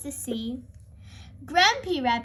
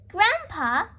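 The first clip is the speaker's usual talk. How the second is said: crying out; 4 semitones higher, 3 dB louder than usual. A narrator's reading. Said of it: "cries Peppa".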